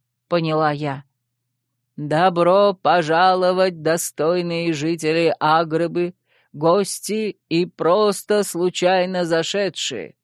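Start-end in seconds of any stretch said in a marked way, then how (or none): 2.0-10.1 announcer call. Acted. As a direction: address the whole arena. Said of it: "продолжил Аладдин".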